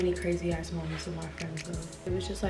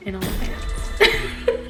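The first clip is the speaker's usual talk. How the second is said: slowed-down edit; 9 dB louder, much slower than usual. Acted. Slowed edited punchline.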